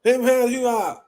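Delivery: high flustered cook voice; mock cook reply. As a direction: placate her from the kitchen. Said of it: "He be like".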